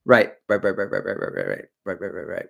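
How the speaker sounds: a quick sketch of Walken musing aloud; Christopher Walken. Acted. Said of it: "Christopher Walken impersonations".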